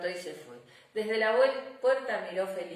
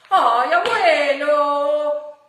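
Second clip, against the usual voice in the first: high, loud, slow pleading whine; whiny little girl; 8 semitones higher, 14 dB louder, much slower than usual. Acted. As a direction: drag out the plea like a child.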